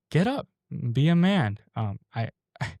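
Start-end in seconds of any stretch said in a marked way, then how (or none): 0.1-1.6 high, sharp motherly order; barking at her son to get up; mom's command. Retold or imitated. Mom ordering her son off the bed, high sharp order. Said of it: "my mom to come in my room and tell me".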